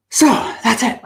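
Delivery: breathless after long talk; out of breath, pushing through. Real, not acted. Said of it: "Okay, I'm out of breath".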